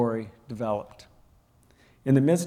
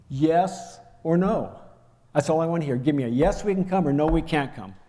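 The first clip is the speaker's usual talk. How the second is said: retold yelling; 3 semitones higher than usual. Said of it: "I'm screaming. I'm yelling".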